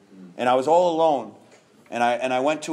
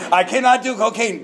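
higher, louder, pleading insistence; emphatic refusal; 8 semitones higher, 5 dB louder than usual. Shown as a demonstration. Refusing the hairstylist's bag, higher and louder insistence. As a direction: plead it out, pitched up and loud like a man refusing the bag. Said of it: "I said it just like that".

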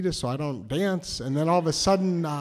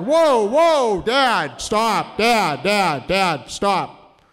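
laughing protest; 3 semitones higher, 6 dB louder, much slower than usual. Retold or imitated. Teen begging his dad to stop embarrassing him, loud and laughing. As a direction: cut your dad off, half laughing and mortified.

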